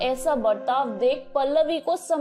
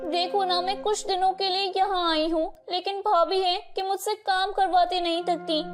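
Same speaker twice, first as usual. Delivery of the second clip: fake whining; 4 semitones higher than usual. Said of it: "अपना रवैया बदल लेती है".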